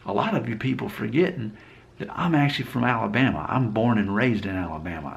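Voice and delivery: light Alabama accent; Southern accent. Shown as a demonstration. YouTuber reminds viewers he's from Alabama, in a light Southern accent. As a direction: slip easily into a Southern accent. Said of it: "I can switch to that pretty easily myself".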